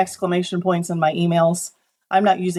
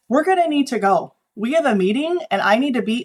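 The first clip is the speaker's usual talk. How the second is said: mock rant, pitched higher and pushy; 5 semitones higher than usual. Retelling the sales manager demanding to leave, mock rant. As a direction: imitate an impatient boss cutting the session short. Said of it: "like, he starts ranting".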